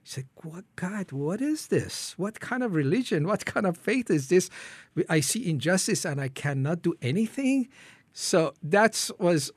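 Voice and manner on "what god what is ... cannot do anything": higher-pitched challenge to God; retold indignant protest. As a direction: question God in mild, acted indignation. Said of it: "I'm really angry".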